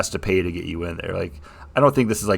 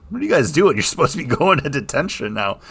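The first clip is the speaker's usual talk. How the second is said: lightly voiced stern McGonagall; 5 semitones higher than usual. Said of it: "McGonagall shows up and is like".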